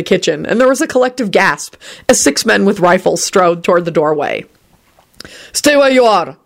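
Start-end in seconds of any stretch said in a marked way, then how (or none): 5.5-6.4 higher-pitched menacing order; threatening intoning. A narrator's reading. Gang leader to the family, threatening. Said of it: "intoned threateningly".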